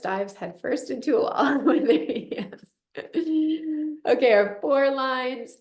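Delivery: slow, laughing narration. Real, not acted. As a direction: chuckle through it.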